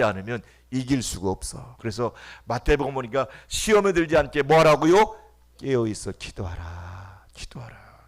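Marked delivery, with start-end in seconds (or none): 5.6-8.1 hushed scripture. Acted. Pastor quoting scripture softly.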